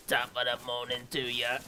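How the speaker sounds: put-on stiff British accent with robot flavor; British accent, mechanical delivery. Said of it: "combine the British accent with the robot".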